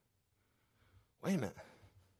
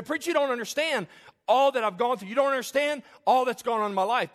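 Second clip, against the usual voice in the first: protesting congregant; 5 semitones higher, 3 dB louder than usual. Acted.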